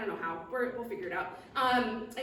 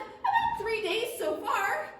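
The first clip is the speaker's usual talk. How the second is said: high and slow little dragonfly; tiny dragonfly voice; 9 semitones higher, 3 dB louder, much slower than usual. Acted. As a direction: drag it out in a small high voice.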